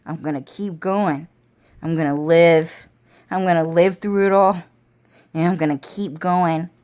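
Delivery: low, menacing villain's promise; evil vow. Retold or imitated. Evil one vowing to drag her down, low and menacing. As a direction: growl it low like a threat you mean. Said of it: "you know what they said".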